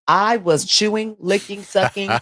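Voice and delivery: slow, savoring each word; slow drawn out. Retold or imitated. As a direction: stretch out every word slowly. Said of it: "I'm stealing that sound clip".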